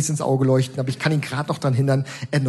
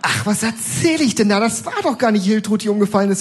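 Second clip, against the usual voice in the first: put-on frail old woman; 8 semitones higher than usual. Old woman gossiping to a bystander, higher old lady voice. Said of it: "sagt die gebrechliche alte Frau".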